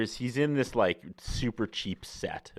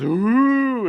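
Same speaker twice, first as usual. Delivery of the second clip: loud, high, drawn-out crowd ooh; mock audience reaction; imitated crowd "ooh"; 11 dB louder than usual. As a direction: swoop up like a scandalised audience. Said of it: "And the crowd goes".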